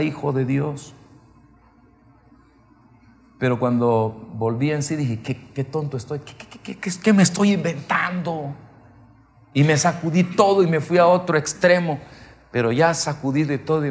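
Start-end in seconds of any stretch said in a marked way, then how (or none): 5.2-8.5 stammering, flustered self-talk, rising at the end; retold startled self-scolding; self-reproach. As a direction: stumble on the first word, then burst out in retold disbelief. Snapping himself out of a vision.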